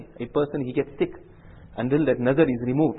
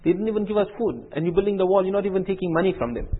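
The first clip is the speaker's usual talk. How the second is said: retold indignant questioning, pitched up; mock an exasperated objection, voice lifting higher; raised-pitch complaint, mildly heated; mildly angry protest; 6 semitones higher than usual. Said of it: "Musa alayhi salam got very angry".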